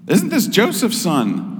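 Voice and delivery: high, drawn-out proud hometown gush; gushing exclamation. Acted. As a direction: exclaim it high and slow, like admiring neighbours. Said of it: "the worshipers exclaim, in the way that every hometown gushes".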